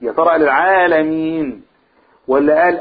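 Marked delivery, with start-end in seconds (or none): 0.4-1.6 "العالمين" with the ي held two counts; short stretch on "العالمين"; two-beat madd. Shown as a demonstration. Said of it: "مد كم حركة".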